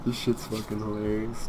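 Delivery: loud high laughter; laughing. Real, not acted. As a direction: crack up laughing. Laughing hard at chaos.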